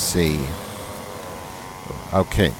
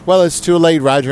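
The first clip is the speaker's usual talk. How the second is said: gleeful taunt; 9 semitones higher, 7 dB louder than usual. Real, not acted. Mock taunt to email writer.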